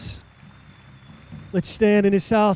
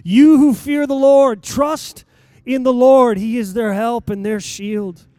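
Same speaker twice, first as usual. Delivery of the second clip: louder, higher preaching that builds to a cry; full-force preaching; 5 semitones higher, 8 dB louder than usual. Acted. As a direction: proclaim each blessing over the crowd, loud and slow.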